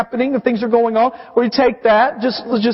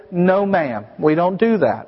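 firm parent; 5 semitones lower than usual. Retold or imitated. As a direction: gently set the rule for the toddler. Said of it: "I will just take it from her or say".

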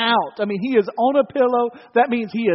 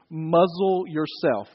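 stern correction; 3 semitones lower, much slower than usual. Shown as a demonstration. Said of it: "new ways to correct your children".

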